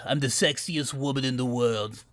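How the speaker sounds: low, husky femme-fatale voice; Doctor Girlfriend.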